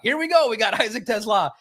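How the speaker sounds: high, hammed-up TV intro, laughing; mock the news lead-in again; TV announcer voice. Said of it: "And the next day at seven o'clock".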